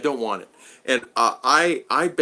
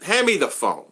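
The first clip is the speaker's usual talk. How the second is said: irritated demand; 6 semitones higher, 3 dB louder than usual. Retold or imitated. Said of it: "I'm getting angry at that time".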